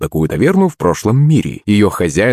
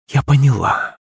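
ominous; 5 semitones higher than usual. A narrator's reading. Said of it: "понизив тон до зловещего".

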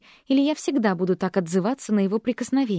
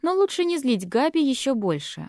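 ordinary delivery

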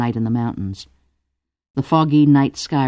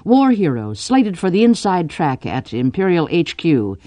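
higher, list-like sales pitch; pitching a suitor; 6 semitones higher than usual. Acted. Cordelia pitches the young lieutenant to Drew's father, promoting. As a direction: talk up the candidate to her father. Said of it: "and I say".

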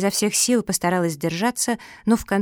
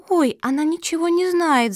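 high, teasing little voice; mild giggly mockery; 9 semitones higher, 4 dB louder than usual. A narrator's reading. Little pug Cookie mocking the turtle, giggly. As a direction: pipe it up high, lightly tittering. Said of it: "захихикала Куки".

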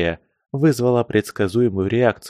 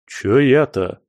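недовольное ворчание, чуть громче; проворчи с обидой; ворчливо; 3 semitones higher, slower than usual. Acted. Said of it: "проворчал повар". (ворчливо)

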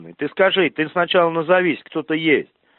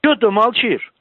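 angry shouting; 5 semitones higher than usual. Real, not acted. Heated demand on phone call.

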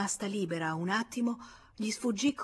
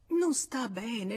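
stammering protest; 4 semitones higher, much slower than usual. Acted. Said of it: "Lei balbettava".

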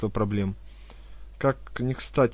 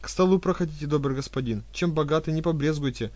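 fawning; 4 semitones higher than usual. Acted. Fawning hostess invites.

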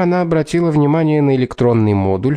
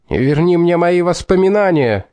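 shouting; 6 semitones higher than usual. A narrator's reading. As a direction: shout it out desperately. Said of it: "заорал Дадли".

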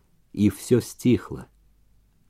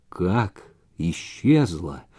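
lower, softer, very slow dismay; stunned mumble; 5 semitones lower, 5 dB quieter, much slower than usual. A narrator's reading. Gleb hearing the letter vanished, a stunned slow mumble. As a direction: let the voice drop in shock. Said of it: "заметно упавшим голосом пробормотал".

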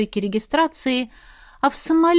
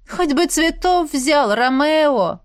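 snorted jab; 5 semitones higher, 4 dB louder, slower than usual. A narrator's reading. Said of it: "фыркнула на него Машка".

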